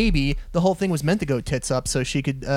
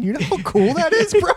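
mock bro; 12 semitones higher, 5 dB louder than usual.

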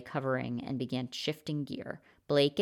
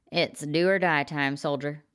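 a louder rousing call to a soldier; rallying call; 4 dB louder than usual. Acted. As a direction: fire up the comrade before the fight. Rallying a comrade to fight.

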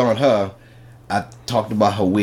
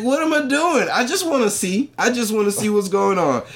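mock innocent whine; 11 semitones higher than usual. Playing innocent to his friend.

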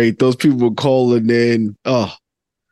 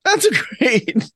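laughing; 12 semitones higher, slower than usual. Real, not acted. Laughing repeat of line 1.

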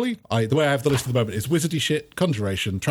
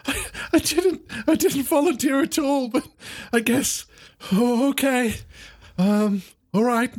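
higher, halting schoolboy voice; hesitant pupil; 9 semitones higher than usual. Acted. Pupil unwillingly picked by the professor, hesitant and higher. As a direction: stammer into reluctant agreement.

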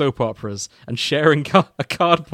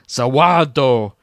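mock scream; 7 dB louder, slower than usual.

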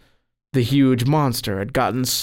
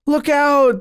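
loud, very high warning cry; screaming; 14 semitones higher, 5 dB louder than usual. A narrator's reading. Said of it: "the boys screamed".

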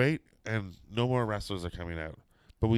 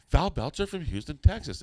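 excited; 7 semitones higher, 3 dB louder than usual. Retold or imitated. Excited confirmation, rising high.

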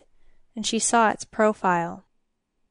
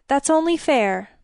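higher, urgent plea; begging; 5 semitones higher, 3 dB louder than usual. A narrator's reading. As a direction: appeal to be treated fairly. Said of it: "Elena begged".

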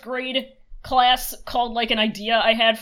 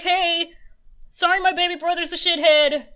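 lightly voiced big sister; 7 semitones higher than usual. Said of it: "She's like".

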